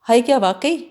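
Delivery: a mild called-out question from a distance; calling from afar. Acted. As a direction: raise it a little as if shouting from another room. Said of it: "باجی دور سے چلائی".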